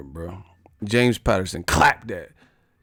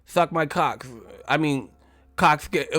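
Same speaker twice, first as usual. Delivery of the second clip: lightly voiced lisping boxer; light impression of a boxer fluffing a promo; Mike Tyson. Streamer mimicking botched cable promo, light boxer impression. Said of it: "he kept messing up".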